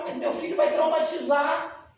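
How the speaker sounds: a mother fearing her son's trauma; worried mother. Retold or imitated. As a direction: voice the fretting mother, drawn out. Worried mother quoted to dentist.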